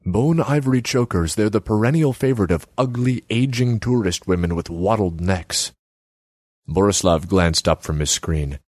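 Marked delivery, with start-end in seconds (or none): 0.1-5.7 higher pitched, nagging artsy woman; Selma's voice. Acted. Selma needles Borislav about his empty kiosk, high voice. Selma sneers at tourist women.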